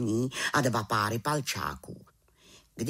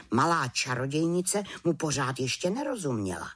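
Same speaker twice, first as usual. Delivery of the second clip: usual speaking voice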